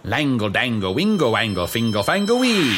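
wizard incantation. Acted. Wizard casts spell.

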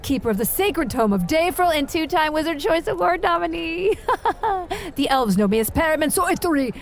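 lofty sorceress reciting her titles; grand wizard proclamation. Acted. Wizard to the tavern, lofty grand proclamation. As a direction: announce yourself like a legendary wizard.

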